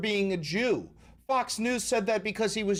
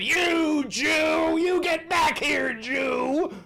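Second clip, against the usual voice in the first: imitating yelling; 10 semitones higher, 6 dB louder, much slower than usual. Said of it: "chasing him down, going".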